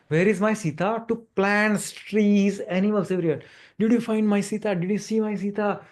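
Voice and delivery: a touch of anxious searching in the voice; imitating Ram searching. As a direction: plead gently as the lost Ram seeking Sita. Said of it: "He was asking like that".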